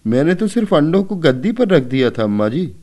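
on the verge of tears, defend yourself; whimpering excuse. A narrator's reading. Keshav pleads his innocence to mother, mildly tearful. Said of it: "Keshav ने रोनी सूरत बनाकर बोला".

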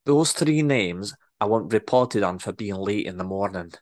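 brisk Scottish orders; Scottish boss orders reports on staff; bossy Scottish accent. Acted. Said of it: "better Scottish accent than I'm portraying".

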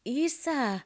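high, loud call for dad; child calling out. A narrator's reading. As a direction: shout for dad like a little boy. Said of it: "hän huutaa".

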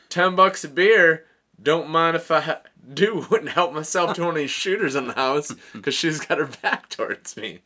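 mock excited plan; gleeful scheming. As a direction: talk yourself into grabbing a shot. Retold greedy inner monologue.

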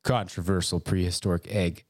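measured, serious headline read; serious news-headline delivery, slowing at the end. Shown as a demonstration. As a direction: read the whole headline in earnest. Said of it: "Say it more seriously".

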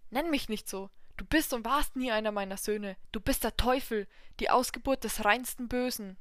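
loud, angry rebuke; angry old man. Acted. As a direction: scold him with rising fury. Old god rebukes devil.

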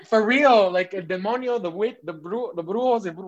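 mock worried exorcist. Mimicking strangers fearing a demon, hammed-up panic. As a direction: ham up the spooked onlookers. Mocking worried people about possession.

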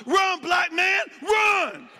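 high, loud squeaky frog shout; a panicked frog yelling a warning; talking frog. Pretend. A frog on a flying lily pad yells at him, high and loud. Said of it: "A frog was flying by ... talking about".

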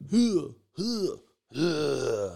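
high huffed "huh" noises; mimed swing grunts. Retold or imitated. Counting off strikes for Josh Means, mimicked huffs. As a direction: imitate effortful swings with short huffs.

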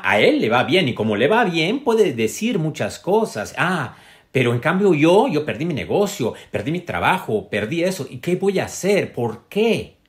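high, loud, exaggerated whine; mocking whiny complainer. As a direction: ham up a self-pitying complainer. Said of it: "cuando uno está bien dices".

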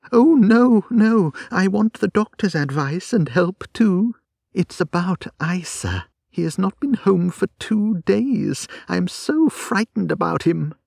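panicked urgent protest; wife terrified for her husband; frightened Kate. Acted.

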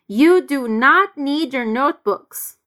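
slow, firm "not" in "You do not need your notebooks"; stress on not. Shown as a demonstration. Teacher modelling emphatic "not" for students. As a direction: lean on "not", unreduced. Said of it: "pois ele queria enfatizar esse not".

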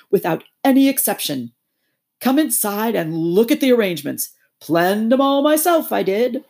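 high, loud rapturous toad voice; pompous Toad gushing over his cart; boastful Toad. Acted. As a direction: sell the dream of the open road. Toad boasts about caravan.

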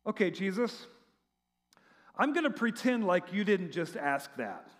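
dry mock patience, trailing down; understated acted sarcasm; sarcastic. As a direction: humour him with a touch of sarcasm. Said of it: "a little bit of sarcasm".

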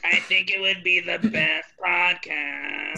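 female smoker voice. Pretend. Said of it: "the female smoker voice you're doing".

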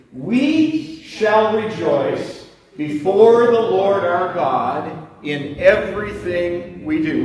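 congregation reading aloud together; slow shared scripture reading; many voices in unison. Real, not acted. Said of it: "would you just read it aloud together with me".

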